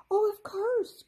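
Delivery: light up with an idea; high excited exclamation; excited cry. A narrator's reading. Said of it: "Kirsty cried".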